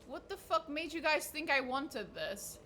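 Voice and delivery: slow, disbelieving complaint; exasperated question. Real, not acted. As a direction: ask it baffled and annoyed. Baffled at unwanted gift.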